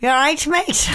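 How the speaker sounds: put-on rough stab at an Australian accent; bad Australian accent. Cohost auditions for Eurovision, shaky attempt at Australian accent. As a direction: have a go at Australian, badly. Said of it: "Okay, Australia".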